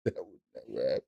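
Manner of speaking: low put-on voice; deep mock echo. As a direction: drop into a deep mocking echo. Echoing own line in another voice.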